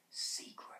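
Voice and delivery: breathy whispered secret. Shown as a demonstration. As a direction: hush it like a secret. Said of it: "say words so that the way you say them".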